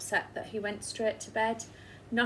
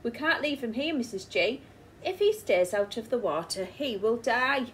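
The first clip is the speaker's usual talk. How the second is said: much higher, urgent worry; excited; 5 semitones higher than usual. Acted. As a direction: rush it out in alarm. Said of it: "exclaimed Mister Grinling".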